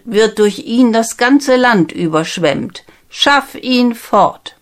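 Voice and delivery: a king testing his daughter's suitor; stern king giving orders; commanding king. Acted. King sets the first task.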